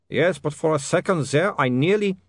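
put-on high accented protest; ashamed vampire.

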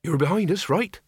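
measured, careful question, pitched high; said slowly. A narrator's reading. Reg checks who is behind them, slow and high-pitched. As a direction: ask it warily and slowly, voice up. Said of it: "Reg said slowly".

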